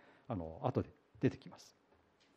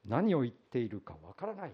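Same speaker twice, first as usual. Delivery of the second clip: flustered denial; 5 dB louder than usual. Retold or imitated. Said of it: "慌ててペテロは".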